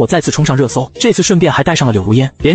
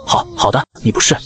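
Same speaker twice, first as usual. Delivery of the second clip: timid agreement; 4 dB quieter than usual. A narrator's reading. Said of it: "我有点害怕迎合道".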